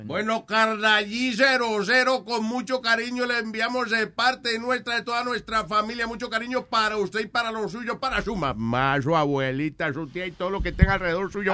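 put-on light Colombian accent, warm greeting. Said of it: "say hi to me in the Colombian accent".

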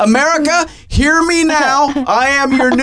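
high, loud grand proclamation; dark lord. Pretend. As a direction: proclaim it like a ruler of nations.

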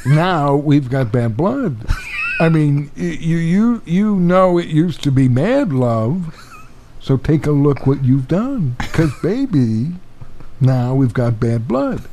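Jeff Bridges voice. Pretend. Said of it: "Jeff Bridges could read some of the lyrics".

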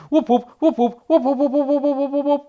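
high, loud rapid knocking; machine-gun woodpecker taps; demonstrated fast pecking. A narrator's reading. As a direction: speed up into a rattle of knocks. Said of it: "zawołał Dzięcioł i zademonstrował".

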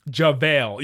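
"JaVale" with a long A, as in vale; Luka's final pronunciation. Retold or imitated. Podcaster copying the end of the clip, long-A "JaVale". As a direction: imitate the final, settled "JaVale". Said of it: "And then he, at the end".

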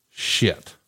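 breathy whispered curse, barely voiced; a hushed imitated curse. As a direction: breathe it out like a caught man. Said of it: "And he goes".

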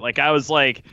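ordinary talk

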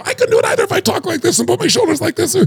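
high, mock pathetic demo voice; slumped defeated voice. Shown as a demonstration. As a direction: show how slumping sounds. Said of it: "demonstrating weak posture voice".

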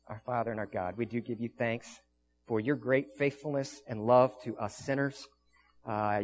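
hushed communion prayer. Acted. Pastor leads a closing prayer.

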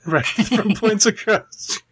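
slow, laughing through the words. Real, not acted. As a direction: giggle as you restart. Laughing restart of intro.

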